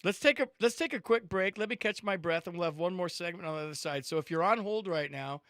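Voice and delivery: loud, upbeat sports radio host; radio host break read. Acted. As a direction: punch the station break like a host.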